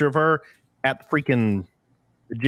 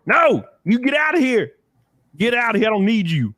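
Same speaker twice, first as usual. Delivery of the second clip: high, loud mock telling-off; exasperated, pitched-up bossing; mock scolding; 9 semitones higher, 4 dB louder than usual. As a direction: playfully shoo it away, voice raised. Scolding the screen while zooming.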